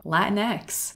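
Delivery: a touch of superhero fanfare, lifting at the end; mock superhero name. YouTuber joking that the term sounds like a superhero, lightly mock-heroic. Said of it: "like some kind of new Latino superhero".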